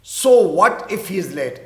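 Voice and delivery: slow, clear teacher's read; slow example line; slow repeat. Shown as a demonstration. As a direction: repeat it slowly for learners. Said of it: "تو کیا ہوا اگر وہ late ہے تو".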